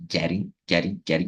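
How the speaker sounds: "getting" with the middle T as a quick R-like tap; tapped R sound. Shown as a demonstration. Teacher showing students "getting" with an R-like tap. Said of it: "como se fosse o som de R".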